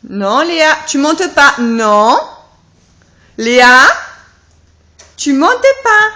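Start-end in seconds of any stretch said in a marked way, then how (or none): 1.6-6.1 yelling across the room. Real, not acted. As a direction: raise the voice to stop her. Repeating warning to toddler.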